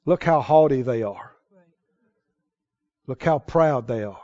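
low, soft, prim disapproving mutter; a hint of scandalized gossip; disapproving church folk. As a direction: voice the judgmental critics, pursed and quiet. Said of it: "they think".

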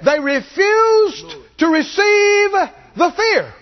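high, ringing shout, slowed; preaching shout. Real, not acted. Preacher rousing the congregation against fear, shouting. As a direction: cry it out from the pulpit.

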